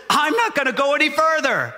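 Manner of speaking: a hint of a balking donkey.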